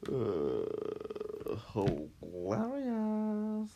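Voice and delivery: slow, drawn-out, sarcastic "hilarious". Real, not acted. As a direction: stretch it out, dripping with sarcasm. Deadpan reply to "fuck you.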